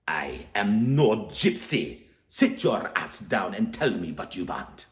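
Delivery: put-on slow, rough accented voice; gruff order. Zelda ordering Stanley to sit, gruff and slow. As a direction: tell him firmly to sit down. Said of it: "the lady instructs".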